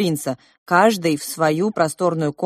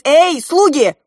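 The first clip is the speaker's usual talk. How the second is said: loud high command; calling servants; 9 semitones higher, 8 dB louder than usual. Acted. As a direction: summon the servants loudly. Prince calls servants.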